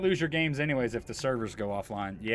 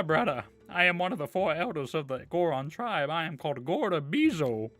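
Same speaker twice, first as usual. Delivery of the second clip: hammed-up old Goron elder voice; bad acting, big and high; 4 semitones higher than usual. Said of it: "sorry for the terrible voice acting".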